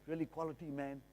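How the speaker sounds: mock starry-eyed gushing; a buyer gasping over the kitchen; dazzled buyer.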